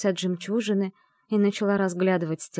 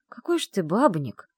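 drawled tease; 3 semitones higher than usual. Acted. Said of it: "протянула я".

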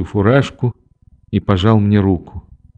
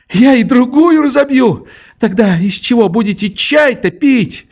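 put-on high, provocative triumphant girl; defiant triumph; 13 semitones higher than usual. A narrator's reading. Nelli taunts the narrator after breaking the cup, high and triumphant. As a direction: crow over the broken cup.

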